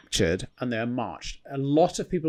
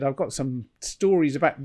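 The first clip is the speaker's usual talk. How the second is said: put-on New Zealand accent. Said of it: "He said".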